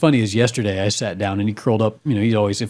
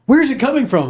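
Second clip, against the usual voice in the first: higher puzzled wife voice; imitating his wife; 13 semitones higher, 3 dB louder than usual. Wife asking where skunk smell comes from, higher puzzled voice. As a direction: pitch up into a bewildered wife. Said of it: "She's like".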